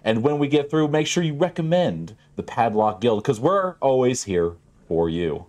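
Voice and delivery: a lightly voiced, eager pitch with a lift; salesman pitch. Taffy pitching the Padlock Guild to Craig, eager and slick. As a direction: sell security like it's a miracle.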